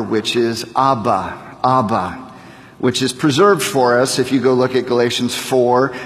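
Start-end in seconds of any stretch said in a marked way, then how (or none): 0.0-2.3 soft, low Abba, AH-buh; Aramaic Abba. Shown as a demonstration. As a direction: say Abba slowly, stress on the first syllable. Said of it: "the Aramaic word for father".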